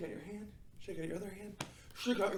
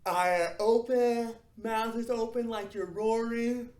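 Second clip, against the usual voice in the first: loud, very slow, wide open lion voice; big open lion face voice; lion face roar voice; 5 semitones higher, 7 dB louder, slower than usual. Shown as a demonstration. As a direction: stretch every word like a roaring lion. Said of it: "you're gonna go".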